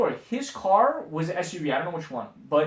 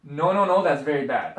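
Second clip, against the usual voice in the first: put-on Indian accent; 5 dB louder than usual. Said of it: "I'm not gonna do the accent".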